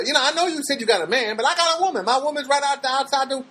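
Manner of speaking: high, fast smooth pickup-line voice; mock ladies' man sweet-talk; smooth-talker impression. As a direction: play the slick guy hitting on her, quick and high. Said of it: "then he goes".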